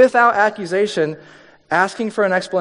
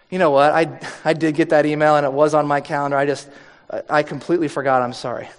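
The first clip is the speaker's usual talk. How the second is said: humble apology; 5 semitones lower, faster than usual. Retold or imitated. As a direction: admit it gently, no excuses. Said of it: "It invites you to say".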